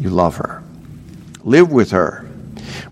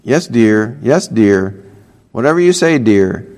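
dismissive; 3 semitones lower than usual. Pretend. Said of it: "Don't just pretend to listen".

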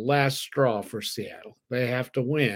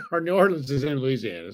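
laughing; 3 semitones higher than usual. Real, not acted.

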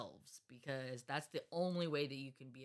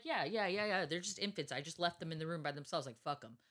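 mock-careless sarcasm, trailing down at the end; sarcastic; faster than usual. Mother sarcastically owning up to leaving her babies alone, sarcastic. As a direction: rattle off a sarcastic false confession. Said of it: "I'm being sarcastic as fuck".

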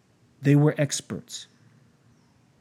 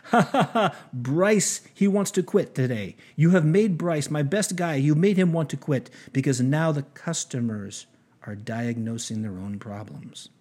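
put-on German accent. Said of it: "In a thick German accent".

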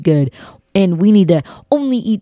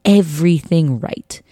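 retold frustration; 2 semitones higher, slower than usual. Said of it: "I remember being so frustrated".

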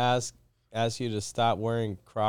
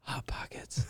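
whisper; 13 dB quieter than usual. Acted. Whispered punchline.

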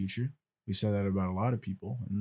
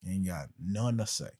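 southern twang. Acted. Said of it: "slang and southern twang".

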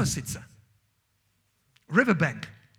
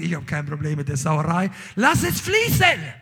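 God's voice, exultant; 2 semitones lower, 8 dB louder than usual. Acted. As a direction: let God cry it out, joyful. Voicing God, excited.

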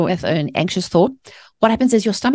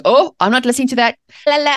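mock dismissive; 6 semitones higher, faster than usual. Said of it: "religious spirit that goes".

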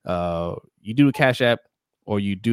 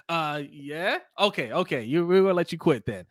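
laughing team bosses; 5 semitones higher than usual. Retold or imitated. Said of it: "They're like".

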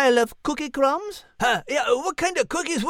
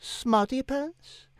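slow, soft disbelief; stunned repeat; 6 dB quieter, much slower than usual. Acted. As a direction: echo it quietly, stunned. Cat repeats insult stunned.

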